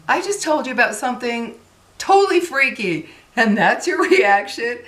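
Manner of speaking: mock-outraged inner reaction; incredulous. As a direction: act out baffled protest with a laugh. Her disbelief at mom's reaction.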